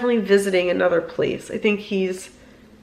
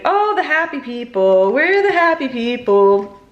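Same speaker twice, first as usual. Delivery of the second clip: retold happy chant, slightly higher; grandfather's singsong; 3 semitones higher, 3 dB louder than usual. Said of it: "like, singing and tapping his foot".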